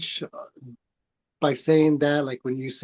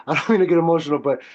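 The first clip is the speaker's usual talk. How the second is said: emotional; 3 semitones higher, 5 dB louder, much faster than usual. Real, not acted. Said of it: "I'm getting a little emotional".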